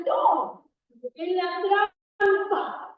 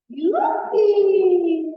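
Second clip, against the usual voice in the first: loud gleeful whoop; yippee shout; 2 semitones higher, 5 dB louder than usual. Acted. Storyteller for the kids, a loud gleeful whoop. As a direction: cheer it like a kid sliding down.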